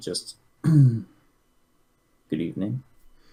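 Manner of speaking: easy, gentle, careful tone. Greeting her in a quiet place, trying not to startle her, soft voice. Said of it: "soft, and try to not startle her".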